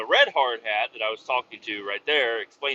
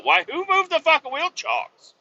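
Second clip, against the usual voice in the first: much higher, exasperated yell; mock outraged outburst; 3 dB louder than usual. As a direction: throw it up in the air, outraged.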